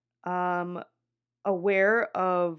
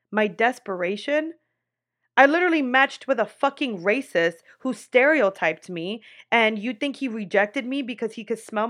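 loud, indignant mock confrontation; retold angry outburst; 2 semitones higher, 4 dB louder than usual. Telling off her therapist after his remark, angry and loud. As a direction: fire back at him, outraged and offended. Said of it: "Bro, I was so fucking angry".

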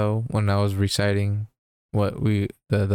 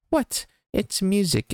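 squeaky, much higher indignant "What?"; mock outrage; 11 semitones higher, slower than usual. Joking about the movie, he shrieks in mock outrage. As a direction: jump way up in pitch in fake disbelief. Narrator's outraged reply in retelling.

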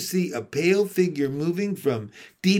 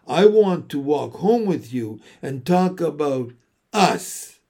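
moony voice; 2 semitones higher than usual. Acted. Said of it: "in a moony voice".

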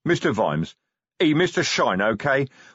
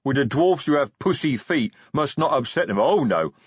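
loud, indignant troll tirade; troll defending his god, furious; angry troll rant; 4 semitones higher, 3 dB louder than usual. Acted. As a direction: lash out at the boss in broken speech. Troll's angry outburst at Vimes.

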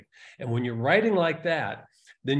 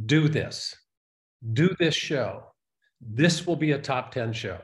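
slow, firm inner voice saying "Do this"; spirit voice. Retold or imitated. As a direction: speak as a sure inner voice. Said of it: "that spirit voice inside said".

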